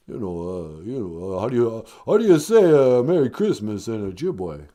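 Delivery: mumbled lightly voiced Stallone; a hint of Stallone mumbling; Stallone impression. Caller Stallone greeting the show host, mildly mumbled. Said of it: "Hey, Sylvester Stallone".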